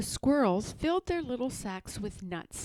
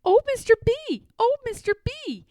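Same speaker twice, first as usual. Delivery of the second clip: very high, loud cheeky call; cheeky squirrel taunting Mister B at the top of his voice; impertinent; 13 semitones higher, 8 dB louder than usual. Acted. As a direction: tease the old owl shamelessly. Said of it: "more and more impertinent".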